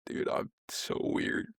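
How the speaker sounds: whispered to himself; hushed self-mocking whisper. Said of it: "I was like".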